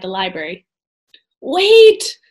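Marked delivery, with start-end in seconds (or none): 1.4-2.2 high, loud thin cry. A narrator's reading. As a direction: call after them in a thin voice. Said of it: "came a thin voice".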